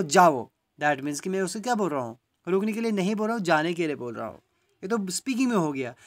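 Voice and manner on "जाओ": जाओ said loud on its own after a pause; separate, stressed जाओ. Shown as a demonstration. Teacher finishes the command to go, जाओ set apart and loud. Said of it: "फिर बोलूँगा".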